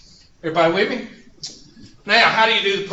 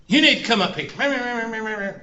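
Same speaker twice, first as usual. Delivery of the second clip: mock-angry, slow and higher; furious demand; 5 semitones higher, slower than usual. Teacher retelling the neighbor's phone call, mild mock fury. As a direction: imitate an irritated neighbor ordering you over. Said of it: "She calls me up furious".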